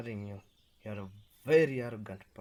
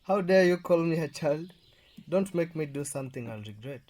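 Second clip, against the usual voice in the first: indignant, louder and higher; angry outburst; 3 semitones higher, 6 dB louder than usual. Acted. Husband snapping back at his wife, furious. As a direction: bristle at the insult.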